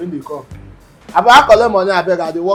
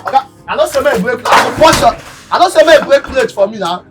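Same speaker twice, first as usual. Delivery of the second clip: angry threat; 3 semitones higher than usual. Acted. Threatening over broken plate.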